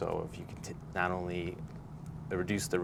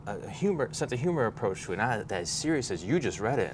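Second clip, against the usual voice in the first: higher-pitched, lightly acted objection; mock protest; 5 semitones higher than usual. Writer correcting someone who misread their humor, mildly pained protest.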